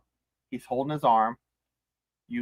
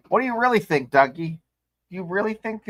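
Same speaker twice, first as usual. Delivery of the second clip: mock probing; 7 semitones higher than usual. Mock questioning Doug.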